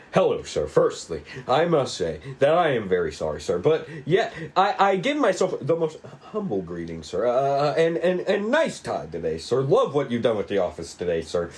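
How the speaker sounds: fast, fawning, over-polite patter; overly eager politeness. Acted. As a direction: suck up to the boss, tripping over words. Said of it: "starts to act overly proficient and kind".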